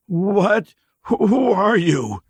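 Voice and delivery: high, loud, caught-off-guard stranger; startled drifter. Acted. Stranger startled by the two strangers, flustered. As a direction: jolt up suspicious and flustered. Dirty man's voice.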